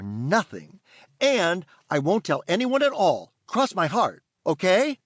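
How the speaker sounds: put-on high, pleading kid voice; a boy begging the fairy to stay; eager young boy.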